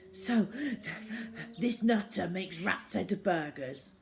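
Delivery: breathless while running; out of breath. Acted. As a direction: talk between breaths mid-run. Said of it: "his dad said breathlessly".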